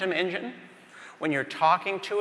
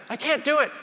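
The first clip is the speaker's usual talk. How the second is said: frantic shouting; 13 semitones higher than usual. Acted. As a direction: shout it out in total panic. Nurse and resident shouting match.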